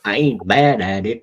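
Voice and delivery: casual put-on Southern twang; Southern accent. Shown as a demonstration. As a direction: boast lightly in a Southern accent. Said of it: "I do a pretty good southern accent".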